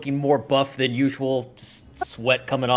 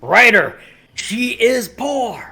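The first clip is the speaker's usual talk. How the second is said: haughty noble voice; 10 semitones higher, 7 dB louder, much slower than usual. Acted. Mimicking a character's line.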